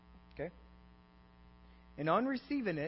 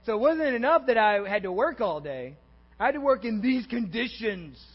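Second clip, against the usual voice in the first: louder, higher acted protest; indignant complaint; 4 semitones higher, 6 dB louder than usual. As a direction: protest the unfairness as the hard-done-by worker. Acts out the grumbling worker's complaint.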